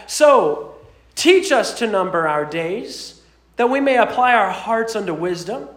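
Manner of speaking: measured, reverent Bible reading; scripture reading. Acted. Pastor reading Psalm ninety to the congregation, reverent. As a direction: read the psalm with solemn weight.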